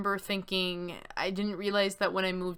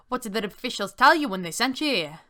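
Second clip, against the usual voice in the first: put-on louder, mildly eager young soldier; enthusiastic; 3 semitones higher, 6 dB louder than usual. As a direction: ask with a touch of kid-like eagerness. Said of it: "he sounds enthusiastic, like a kid".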